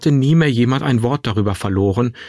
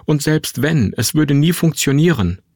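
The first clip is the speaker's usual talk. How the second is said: higher-pitched, insistent objection; agitated protest; 4 semitones higher than usual. Acted. Son telling mother her plan will fail, agitated. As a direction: argue back with raised pitch.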